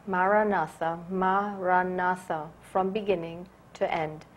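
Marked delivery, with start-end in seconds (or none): 0.1-2.5 Maranatha repeated gently, syllables evenly weighted; said as a mantra. Shown as a demonstration. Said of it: "say your mantra".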